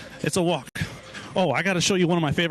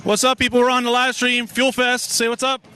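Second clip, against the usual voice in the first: raised, hyped call-out to the crowd; hyping the crowd; 4 semitones higher, 4 dB louder than usual. Real, not acted. Host calling to the Fuel Fest crowd, hyped and raised. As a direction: pump up the people nearby to cheer.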